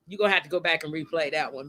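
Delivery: quick, laughing through the words. Real, not acted. Host repeating to late guest Carlin, laughing. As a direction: let the laugh break into the repeat.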